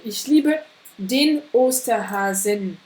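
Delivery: slow, carefully articulated Ich liebe den Osterhasen; slow teaching read. Shown as a demonstration. Teacher modelling the weak masculine slowly. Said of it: "un masculin faible".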